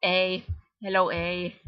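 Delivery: hammed-up Canadian stereotype; mock Canadian accent. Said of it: "Let me go back to talking like a Canadian".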